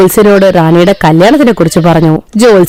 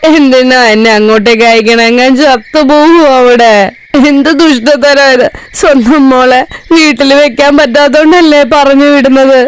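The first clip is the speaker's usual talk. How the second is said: fake loud crying; 2 semitones higher than usual. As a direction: overact a bride's tearful farewell. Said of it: "റാണി ഒച്ചയില് കരയാൻ തുടങ്ങി".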